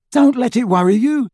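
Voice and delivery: high, loud, breezy reassurance; breezy character voice. Acted. Ron to the children at the train, jokingly reassuring. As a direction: pipe up loudly in a high character voice.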